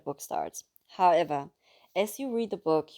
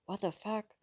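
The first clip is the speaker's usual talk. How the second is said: shocked whisper; 4 semitones higher, 6 dB quieter than usual. A narrator's reading. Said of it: "My words were merely a whisper".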